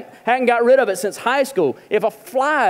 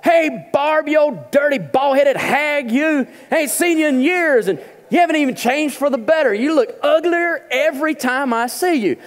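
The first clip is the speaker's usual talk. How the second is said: mock rough greeting; 6 semitones higher than usual. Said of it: "they'll say something like".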